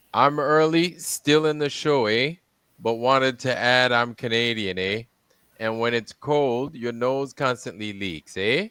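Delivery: put-on reading a viewer comment in a light Canadian accent, leaning on each "eh"; a mild mock Canadian lilt, with every "eh" tagged on as a question. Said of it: "he sounds like a Canadian".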